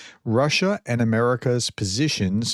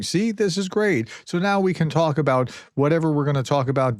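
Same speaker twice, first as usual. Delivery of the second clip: higher-pitched, lightly mocking quote; mock eager Russians; 5 semitones higher, faster than usual. Commentator voicing Russians running with the wording, mock eager. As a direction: imitate gleeful opponents, pitch lifted. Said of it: "they're running with it going".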